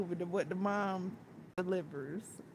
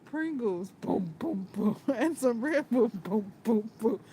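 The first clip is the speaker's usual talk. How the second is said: quoting the movie line; 4 dB louder than usual. Retold or imitated. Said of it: "He says".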